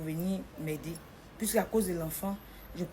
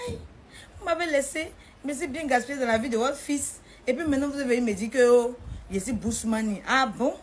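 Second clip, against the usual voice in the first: indignant reproach; 4 semitones higher, 4 dB louder than usual. Retold or imitated. Confronting boyfriend's family, indignant.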